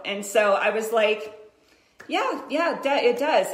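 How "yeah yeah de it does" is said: casually breezy, hiding worry; mock-casual reply to her daughter; nonchalant. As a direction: toss it off like it's no big deal. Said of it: "in my most nonchalant voice".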